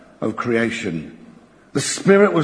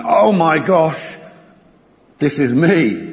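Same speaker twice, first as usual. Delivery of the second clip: dismayed realisation; 3 semitones higher, 3 dB louder, slower than usual. Retold or imitated. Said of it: "He's seen something and thinking".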